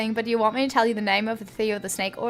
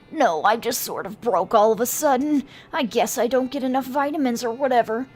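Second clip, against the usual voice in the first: injured man. Acted. Injured man to passerby about his leg, put-on voice. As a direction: answer as a put-out casualty.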